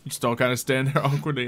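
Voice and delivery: ordinary delivery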